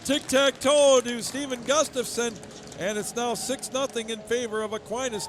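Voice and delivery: loud, high recap of the goal; excited. Real, not acted. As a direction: still fired up after the goal. After the goal call.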